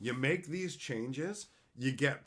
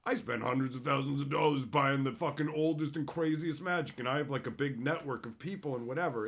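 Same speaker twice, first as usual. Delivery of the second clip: louder, boastful put-on voice of a rich collector; a puffed-up braggart, mocked; mock insanoid collector; 2 semitones higher, 4 dB louder than usual. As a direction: ham up a self-important Magic investor bragging. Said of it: "Unless you're some insanoid, like".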